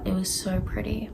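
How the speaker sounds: soft unvoiced whisper of delight; whispered gush. Real, not acted. Vlogger to viewers about the art, whispered gush. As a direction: breathe it out in a hushed whisper. Gushing over manga art.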